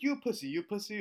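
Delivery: high repeated mock jeer; taunting student. Embarrassed student keeps insulting teacher, high mock taunt. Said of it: "and he's like".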